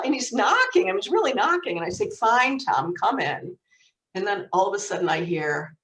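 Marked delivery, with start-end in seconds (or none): 2.1-3.6 mild retold exasperation; exasperated giving in. Sister in the shower relenting, mildly exasperated. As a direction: give in to a nagging brother.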